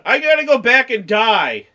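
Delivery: mock movie dialogue. Friends telling a podcast co-host the scene, mocking. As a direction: parody the dumb lines.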